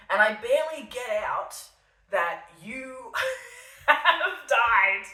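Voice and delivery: words breaking into laughter; laughing. Real, not acted. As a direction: laugh through the news, barely getting it out. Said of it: "before I am simply laughing".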